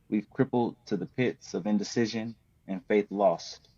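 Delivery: measured spoken word delivery with long pauses; spoken word poem. Acted. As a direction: perform the poem deliberately, line by line. Reads his poem Judge Not.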